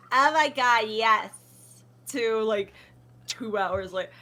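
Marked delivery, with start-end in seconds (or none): 0.1-1.3 regular impression. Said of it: "It became from, like".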